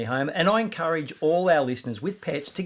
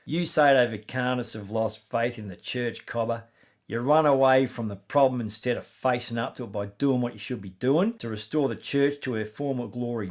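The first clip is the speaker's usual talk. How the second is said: put-on Aussie accent; 3 semitones lower than usual. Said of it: "a fair dinkum Aussie accent".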